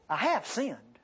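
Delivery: "have" lifted in a frank admission; stress on have. Retold or imitated. Job admitting to God, stress on "have". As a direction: lean on "have", then fall away on "sinned". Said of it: "Let me tell you how he said it".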